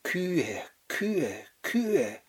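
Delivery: soft, repeated mumble as if waking from a nightmare; haunted muttering. Acted. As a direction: mutter it under your breath, word by word. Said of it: "wake in a cold sweat at three A M muttering".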